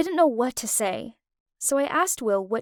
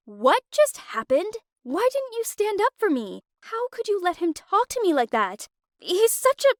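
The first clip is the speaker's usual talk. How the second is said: higher, rising indignant questions; retold angry outburst; 8 semitones higher than usual. Girlfriend confronts boyfriend over his silence, higher and indignant. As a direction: demand an answer, hurt and furious. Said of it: "I was shaking with rage".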